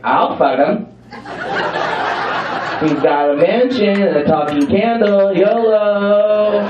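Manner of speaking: acted drunken party princess; tipsy, carefree declaration; super drunk. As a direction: play Belle drunk and reckless, stretching the last word. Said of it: "just super drunk".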